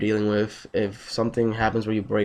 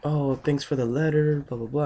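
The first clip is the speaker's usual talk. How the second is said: imitating the ex; 6 semitones higher than usual. Ex thanking him for the letter, mock grateful. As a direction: draw out a mock thank-you, trailing into blahs. Retelling the ex's thank-you message.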